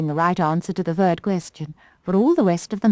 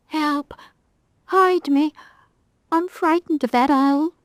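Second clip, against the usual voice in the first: higher, mildly frightened plea; frightened little cat; 11 semitones higher than usual. Acted. Little cat begs the doll to hide it, mildly scared. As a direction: beg to be hidden. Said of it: "came a little voice".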